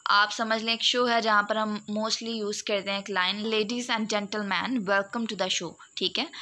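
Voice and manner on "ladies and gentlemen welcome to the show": "Ladies and gentlemen" in measured stressed beats; rhythmic show opener. Shown as a demonstration. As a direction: give "welcome to the show" a rhythm. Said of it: "एक rhythm होता है". ("Ladies and gentlemen" लय और ज़ोर के साथ)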